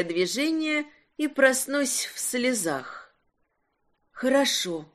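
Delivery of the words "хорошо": barely moving lips, hushed; numb lips. Acted. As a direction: whisper through numb lips. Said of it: "непослушными губами прошептала я".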